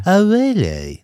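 high, loud breathy mockery of a drawl; Kate Moss voice. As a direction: send up a famous model's voice. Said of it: "the least sexy voice you've ever heard".

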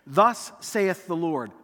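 put-on slow, solemn old-English prophet voice; a lightly voiced solemn prophet, slowed right down; King James English. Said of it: "King James English".

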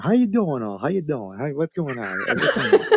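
a hint of a brash Joey persona; lightly voiced streetwise guy greeting the room; Joey alter ego. Host's guest switches to his Joey persona, lightly voiced. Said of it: "let me change my alter ego".

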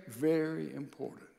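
dropped low and soft for weight; quiet emphasis. Shown as a demonstration. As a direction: lean in and say it low.

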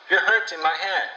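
high, loud complaint; pained protest. Acted. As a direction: cry out that it hurts. Girl protests in pain.

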